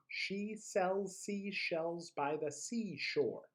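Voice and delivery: slow, precise tongue twister; careful enunciation. Shown as a demonstration. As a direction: say each sound correctly. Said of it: "pronouncing all of those correctly".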